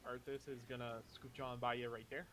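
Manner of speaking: lightly put-on Midwestern accent; easy, folksy Midwestern accent. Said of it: "I say in my best Midwestern accent".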